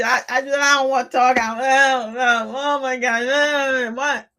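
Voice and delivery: overwhelmed, can't get words out; flustered stammering. Retold or imitated. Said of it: "all I could do was just be".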